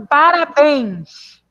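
Parabéns drawn out, each syllable spaced; slow dictation. Shown as a demonstration. Teacher dictates the next word to pupils, drawn out. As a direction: stretch Parabéns so kids hear the stress. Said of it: "a sílaba tônica?".

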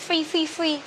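FREE said quickly with a weakened r, like a learner; imitated student mispronunciation. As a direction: mimic students fumbling the r in FREE. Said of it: "Một số bạn học trò của cô có đọc là". (bắt chước học trò đọc sai FREE)

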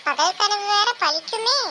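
high-pitched taunting; mocking. Wife teases husband over his nightmare, mocking. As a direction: needle him, drawing out the last part loudly.

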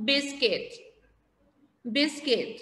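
biscuit said slowly and clearly, BIS-kit; model pronunciation. Shown as a demonstration. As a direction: say biscuit clearly for pupils to repeat. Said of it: "listen carefully and repeat after". (ออกเสียง biscuit ชัดๆ ให้นักเรียนพูดตาม)

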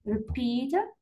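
Repeat, weight on the final syllable; stress on PEAT. Shown as a demonstration. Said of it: "البي اللي ندير لها stress".

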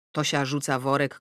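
ordinary delivery

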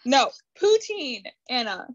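tipsy. Real, not acted. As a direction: talk a little tipsy. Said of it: "Sorry, I'm a little bit more tipsy".

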